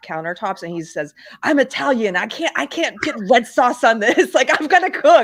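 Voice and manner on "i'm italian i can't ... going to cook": loud, pitched-up yell, insisting hard. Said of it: "yelling about how they have these beautiful marble countertops".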